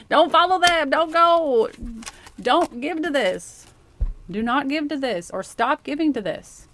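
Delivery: loud, high, laughing warning; the inner voice yelling at them to stop; urgent warning. Pretend. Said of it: "your intuition is like".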